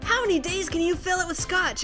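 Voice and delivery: ordinary delivery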